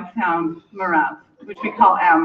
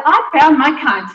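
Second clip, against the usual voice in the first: excited shout; 5 semitones higher, 6 dB louder than usual. Retold or imitated. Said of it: "jumped up and down and said".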